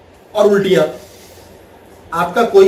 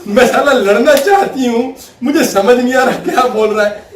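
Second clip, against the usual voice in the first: higher, exasperated wife's voice; mock frustrated wife; 3 semitones higher than usual. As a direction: play the wife itching for a fight. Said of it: "वो कहेगी".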